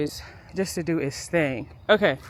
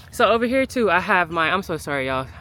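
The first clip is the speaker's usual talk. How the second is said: talking through a sniffle; sniffling. Real, not acted. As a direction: sniffly voice from allergies. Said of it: "please excuse the sniffling".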